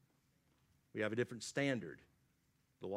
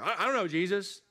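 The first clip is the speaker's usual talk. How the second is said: lightly acted protest, higher and louder; acting out Peter's denial; 6 semitones higher, 5 dB louder than usual. Preacher voices Peter denying he knows Jesus, lightly acted protest. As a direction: blurt out a mock denial, pitched up. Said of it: "You remember when he's like".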